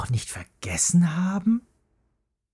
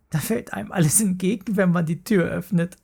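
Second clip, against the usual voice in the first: put-on higher, fast girl's voice; teasing little sister; 5 semitones higher, faster than usual. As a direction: rush it out, mocking. Mara keeps teasing Paule.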